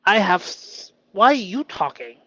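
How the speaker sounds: loud, high mock-assertive retort; playful pushback. Telling off his shadow voice, mock bold. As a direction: shut the critic down playfully. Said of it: "I could say".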